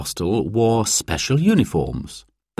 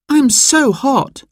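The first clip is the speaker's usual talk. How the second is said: put-on child complaining; 3 dB louder, slower than usual. Overheated child to Dad in the car, high complaining voice. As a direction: complain slowly in a high little voice.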